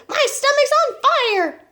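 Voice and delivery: high, loud, slow drawn-out shout; alarmed shout. A narrator's reading. Grandma burning after the medicine, alarmed shout. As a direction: wail it at full volume, stretching the words. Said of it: "she shouted suddenly".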